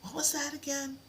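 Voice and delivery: high, puzzled student asking again; mock bewildered learner; confused student. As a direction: play the lost student who forgot the lesson. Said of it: "you're like".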